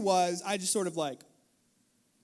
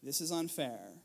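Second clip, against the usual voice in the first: a hint of teary father; emotional plea; 6 semitones lower, 8 dB quieter than usual. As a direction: plead gently, near tears. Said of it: "I was emotional".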